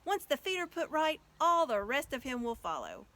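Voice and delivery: loud, glad call out; joyous shout. Acted. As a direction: keep the joyful shout going. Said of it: "shouted Aslan joyously".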